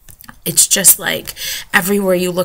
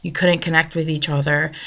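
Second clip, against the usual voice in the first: ordinary talk, nothing marked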